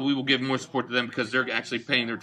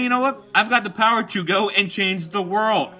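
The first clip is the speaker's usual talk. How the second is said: mock Pope voice; 6 semitones higher than usual. Voicing the Pope's words.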